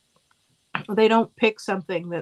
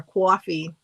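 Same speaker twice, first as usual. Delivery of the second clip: put-on "coffee" as "cwaw-fee" in Brooklyn accent; touch of old Brooklyn accent on "coffee"; 3 dB louder than usual. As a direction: lightly imitate a Brooklyn "coffee", first vowel rounded. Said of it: "he had the full-on accent".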